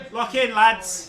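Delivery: high, slow mock of a hype call; teasing his co-host by dragging out his catchphrase. Teasing co-host over his catchphrase, slow high mock. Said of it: "It's 'cause you kept going".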